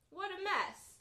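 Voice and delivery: put-on Baby Bear crying out. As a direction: cry out like a small bear who's been wronged. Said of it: "cries Baby Bear".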